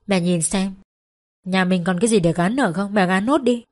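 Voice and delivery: a touch of bitter mockery, lightly voiced; dry, bitter, half-laughing jab; bitter scorn. Daughter taunts mother to pawn the rest, bitterly. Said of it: "tự nhiên lại cười nhạt".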